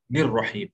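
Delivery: निर्रहीम with the n fused onto a doubled r; n joined to r. Shown as a demonstration. Teacher shows noon linked to re, joined pronunciation. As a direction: run ni straight into the rolled r of निर्रहीम. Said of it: "direct ये भी रे से मिलाया".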